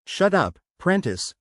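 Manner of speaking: hissed. Acted. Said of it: "Althea hissed".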